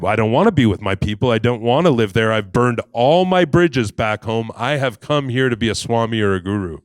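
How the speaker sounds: loud, mildly heated protest; acted stubborn objection; indignant. Acted quarrel with the beggar.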